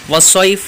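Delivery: والصیف with the ay stretched; والصیف recited with a long ay; recited word. Shown as a demonstration. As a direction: draw out the ay in والصیف. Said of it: "صیف یہاں پر مد لین عارض".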